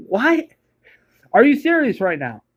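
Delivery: sharp high jump on What, then incredulous; like you can't believe what you just read; disbelieving what. Retold or imitated. Reacting to a silly line.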